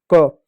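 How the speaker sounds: क as a bare hard "kuh"; letter sound. Shown as a demonstration. Teacher asking pupils to read only sounds, क as "kuh". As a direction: give only the sound क, not the name "see". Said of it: "आप सिर्फ sound पढ़ो".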